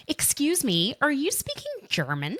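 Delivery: politely butting in with a question, voice lifted high; woman behind in line. Retold or imitated. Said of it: "this woman behind us goes".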